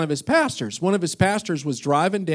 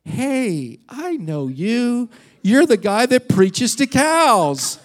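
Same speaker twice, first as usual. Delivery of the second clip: higher, slow, teasing call-out; recognising caller; 5 semitones higher, slower than usual. Retold or imitated. Stranger at the meeting spotting the pastor, higher teasing. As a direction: call out the guy you recognise. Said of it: "this guy goes".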